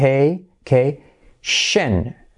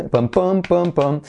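mock stalling engine; 5 semitones higher than usual. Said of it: "un coche que se está calando".

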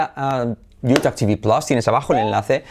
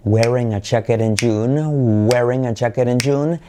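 stretched-out drill delivery; slow, linked teacher demo; slow model sentence. Shown as a demonstration. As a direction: draw the words out for learners to copy. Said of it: "la frase de referencia".

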